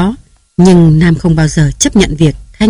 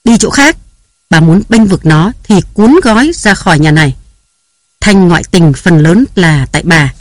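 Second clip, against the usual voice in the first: barking order. Acted. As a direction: drive the old nanny off in anger. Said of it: "quát".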